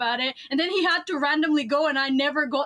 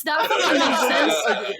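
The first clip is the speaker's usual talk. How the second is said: laughing quote; 4 dB louder, slower than usual. Retold or imitated. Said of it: "everyone's like".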